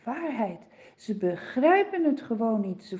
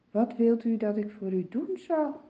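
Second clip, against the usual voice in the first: loving and kind. Acted. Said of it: "spreekt liefdevol en vriendelijk".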